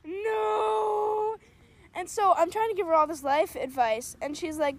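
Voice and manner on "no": loud drawn-out cry of disgust; mock disgust. Friend recoiling at the first kiss story, mock disgust. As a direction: wail it out, appalled.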